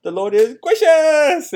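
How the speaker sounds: put-on high, loud, slow toddler yell; little son's shout. Dad imitating his baby son shouting the verse, high toddler yell. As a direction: belt it out like a tiny boy proud of his verse. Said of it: "And he would say it just like that".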